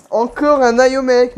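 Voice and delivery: high, loud, drawn-out reveal; excited announcement. Real, not acted. Vlogger presents his new figure, loud excited announcement. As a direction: announce it big, stretching the words.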